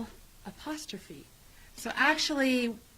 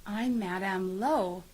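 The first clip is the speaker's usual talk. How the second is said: teacher voice; 3 semitones lower, slower than usual. Retold or imitated. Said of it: "I say".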